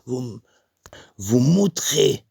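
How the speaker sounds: mock offence, last word stretched out; offended man. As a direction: act out a stranger lost for words. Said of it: "Il fait".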